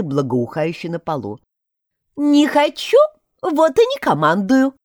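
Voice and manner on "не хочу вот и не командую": a higher, cheeky snort of a refusal; snorting mouse. A narrator's reading. The mouse teases the hungry dog, cheeky snort. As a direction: toss it off like a smug little mouse. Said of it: "фыркнула мышь".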